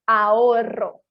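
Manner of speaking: summary demo of "ahorro"; rolled RR. Shown as a demonstration. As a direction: roll the RR of "ahorro" strongly. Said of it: "muito mais forte".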